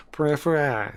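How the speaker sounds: French attempt, "Per, eh, fair, eh" in separate sounds. Shown as a demonstration. Learner checking whether it is French, attempted French. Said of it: "Is that French?".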